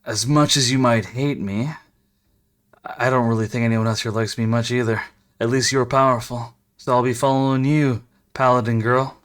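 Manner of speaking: low smug rogue voice. Acted.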